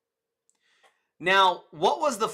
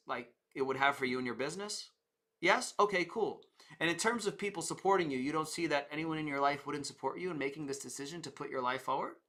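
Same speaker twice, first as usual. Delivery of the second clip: soft, relaxed reassurance; gentle salesman defusing an objection; easygoing salesman; 5 dB quieter than usual. Retold or imitated. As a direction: stay calm and agreeable with the customer. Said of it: "Or you can be like this".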